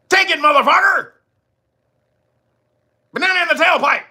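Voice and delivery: high, loud jeering taunt; mock taunting yell. Commentator mocks the taxpayer with a loud jeer. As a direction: jeer it like a bully.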